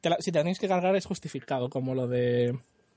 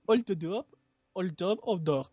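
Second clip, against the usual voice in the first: put-on rusty Hungarian accent; slower than usual. Reading the Hungarian dub to friends, laughing mock Hungarian accent. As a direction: fake Hungarian through laughter. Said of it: "mi acento húngaro está un poco oxidado".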